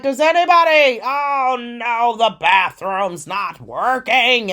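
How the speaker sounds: loud, panicked shout; mock panic from the lady. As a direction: cry out in desperation. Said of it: "she was like".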